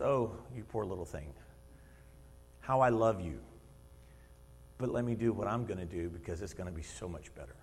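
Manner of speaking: put-on low, soft and loving, like a father to a small child; soft fond chuckle in the voice; tender fatherly voice. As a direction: gently reassure a little one. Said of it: "just kinda laughs, and he chuckles".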